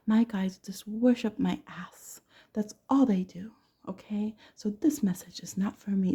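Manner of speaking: slow whispered imitation; mock whispered know-it-all. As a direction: whisper it like a smug skeptic. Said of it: "'cause they'll say".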